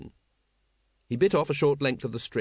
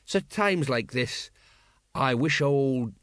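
slow wistful musing; mild drunken longing; slower than usual. Acted. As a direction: let the thought trail off. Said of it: "said Colon wistfully".

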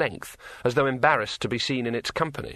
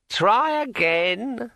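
high, slow, eerie ringing voice; like a finger round a wine glass rim; ringing metallic sword voice; 11 semitones higher, 3 dB louder, much slower than usual. A narrator's reading. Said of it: "the sword said encouragingly".

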